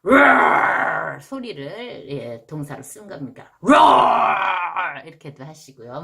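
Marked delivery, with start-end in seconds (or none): 0.0-1.2 loud growling roar; lion roar. Shown as a demonstration. Teacher roaring like a lion to sound scary. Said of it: "무섭게 할 때". 3.6-5.0 loud growling roar; lion roar. Shown as a demonstration. Teacher roaring like a lion to sound scary. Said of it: "무섭게 할 때".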